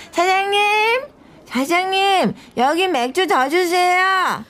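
bright-pitched customer holler; calling the owner. Acted. Drunk customer calls the owner.

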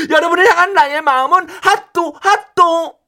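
핫도 said with a cutesy lisp instead of 하트; 핫도 with a short-tongued childish lisp; lisping baby talk. Acted. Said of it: "혀가 짧아졌어".

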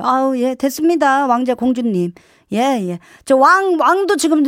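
mock-polite brush-off; lightly needling deference; sarcastic mother. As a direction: refuse help as if serving royalty. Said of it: "비꼬면 더 힘들어요".

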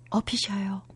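soft unvoiced whisper. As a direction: breathe it to her gently. Whispered to dying mentor.

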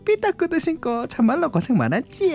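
put-on old country mother. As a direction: coo over her like a granny. Old country mother greets bride.

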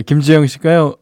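usual speaking voice

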